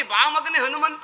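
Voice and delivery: imitated fond welcome. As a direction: imitate a doting master slowly beckoning his son. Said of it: "ಅಂತ ದಬ್ಬಿಕೊಳ್ಳುವ ನೀವು". (ಮಗನನ್ನು ಅಕ್ಕರೆಯಿಂದ ಕರೆಯುವ ಅನುಕರಣೆ)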